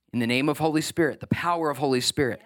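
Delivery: firm, emphatic prayer formula; praying with power. Shown as a demonstration. Pastor urging the church to pray with power, firm. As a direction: lean into Holy Spirit. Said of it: "to pray with power".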